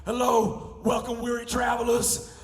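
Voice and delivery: tour guide voice. Pretend. Comic playing a tour guide to weary travelers, loud theatrical guide. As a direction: announce it like a hammed-up plantation tour guide. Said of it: "This is what it was like".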